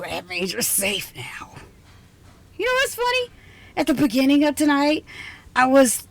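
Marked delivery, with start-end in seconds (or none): 0.0-1.5 a hushed, reassuring whisper; soft whisper. Acted. Scientist telling her guest the danger has passed, soft whisper. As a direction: whisper it gently, letting the guard down. Tender reveal at the lockdown's end.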